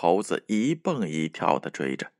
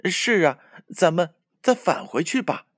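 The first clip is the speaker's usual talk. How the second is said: higher, panting with tongue out; tongue sticking out; 7 semitones higher than usual. A narrator's reading. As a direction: talk with your tongue hanging out. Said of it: "伸着舌头说".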